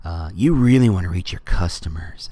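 lightly put-on corporate pitch, low after the hey; mock sales voice, dropping low; weird Facebook voice. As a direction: pitch to brands in an odd company voice. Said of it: "that weird Facebook accent or voice".

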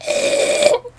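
choking gasp. Retold or imitated. Vader choke imitation.

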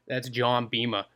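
put-on light Boston accent on Beamer. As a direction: drop the r like a Bostonian. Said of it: "I said Beamer with a Boston accent".

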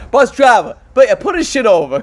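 high, loud yelling at the driver; angry yelling. Retold or imitated. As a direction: shout to stop the bus. Bernie Mac style yell.

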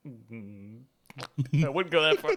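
ordinary talk

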